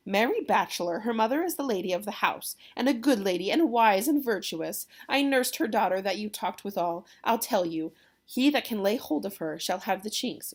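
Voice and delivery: lightly voiced proud nurse; chatty nurse. Nurse telling Romeo about Juliet's mother, lightly acted boast.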